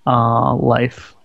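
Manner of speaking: slow, mellow, measured reflection; low and mellow. Real, not acted. Co-host shares a saying about life after a friend's death, mellow. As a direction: take your time, pausing between phrases, low-toned. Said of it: "sounding really nice, low tone and mellow".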